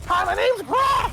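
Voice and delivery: high-pitched, loud character yell; screamed introduction. Retold or imitated. Retelling how a game character introduced himself, screamed. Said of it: "he fucking screamed it every time he said his name".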